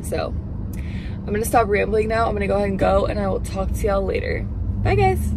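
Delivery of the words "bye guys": high chirpy goodbye; high sing-song bye. Real, not acted. Sing-song vlog sign-off.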